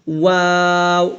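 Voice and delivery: "ওয়াও" from two rounded lips with thin long aa. Shown as a demonstration. Teacher showing the lip letter, thin rounded "ওয়াও". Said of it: "দুই ঠোঁট গোল করে পাতলা আওয়াজ".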